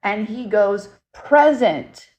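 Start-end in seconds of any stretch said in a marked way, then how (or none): 1.1-2.1 a light, higher cowboy-style "howdy" twang, a touch louder. Retold or imitated. Retelling the ghost's answer on the spirit box, in a light howdy twang. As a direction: give the word a friendly country twang, lightly imitated. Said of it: "in his, like, howdy voice".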